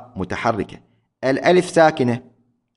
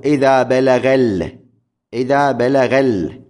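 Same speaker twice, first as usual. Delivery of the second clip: slow scansion. Shown as a demonstration. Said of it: "على وزن مفاعلة".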